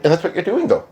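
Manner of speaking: lightly put-on British-Australian-leaning accent. Relaying his retort to her, put-on accent. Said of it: "I'm not doing the accent".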